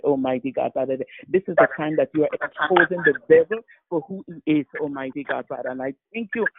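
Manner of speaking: earnest, driving prayer with punched phrases; fervent prayer. Real, not acted. Woman of God prays on the prayer line, fervent prayer. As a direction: pray it out with rising conviction.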